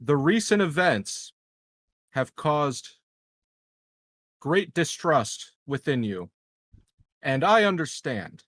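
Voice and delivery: measured, grave public address over loudspeakers; PA announcement. Pretend. El Presidente addresses the colony over the PA, in a solemn speech. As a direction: address the whole colony like a leader calming a crowd. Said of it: "narrate what's, uh, coming over the speakers".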